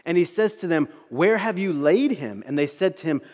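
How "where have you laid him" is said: loud, raised-pitch demand; forceful, angered questioning; bellowing with rage. Acted. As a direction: put some roused anger into the question. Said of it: "He bellows with rage".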